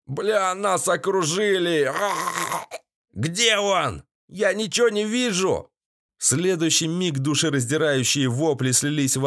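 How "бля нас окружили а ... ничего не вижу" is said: panicked thug. A narrator's reading. Бандит в панике.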